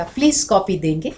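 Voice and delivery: softened, courteous asking; polite request. Shown as a demonstration. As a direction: ask nicely, as a favour. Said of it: "तो फल अलग मिलेगा".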